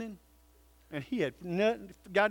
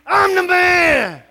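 much louder and higher, slow and full-throated; big man shout; 10 semitones higher, 14 dB louder, slower than usual. Shown as a demonstration. Pastor leads the men in a stadium-style shout. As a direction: bellow it like at the football game. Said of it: "as loud as we can in our best man voice".

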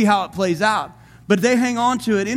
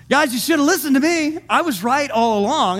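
higher-pitched mock I-told-you-so; 4 semitones higher than usual. Paul to the men who ignored him, mock told-you-so. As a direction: rub it in, voice lifted. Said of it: "That's what he's saying".

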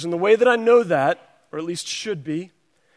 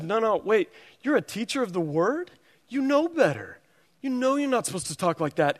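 kindly and sweetly; 3 semitones higher than usual. Retold or imitated. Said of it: "when she kindly and sweetly".

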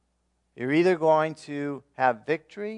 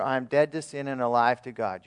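recitation demo; 2 semitones lower than usual. Shown as a demonstration. Pastor models a declaration for the church to repeat. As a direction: stress on "dead", steady and falling. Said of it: "Let's practice saying together".

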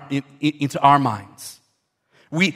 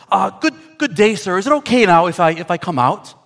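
higher, hesitant, overly polite parrot; stammering, suddenly well-mannered bird; chastened parrot; 4 semitones higher than usual. Acted. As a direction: ask timidly to be let out. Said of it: "and the parrot says".

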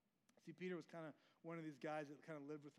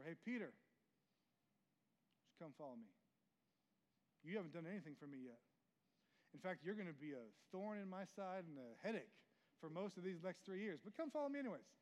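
Jesus calling out; 5 dB louder than usual. Retold or imitated. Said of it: "yelling from the shore".

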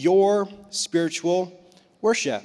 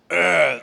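disgusted groan. Acted. Preacher groans in disgust at overpreached passage.

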